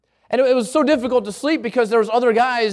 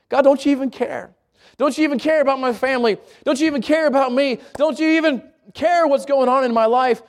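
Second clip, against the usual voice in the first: doubting plea; 3 semitones higher than usual. Acted. Voicing doubting believer's plea.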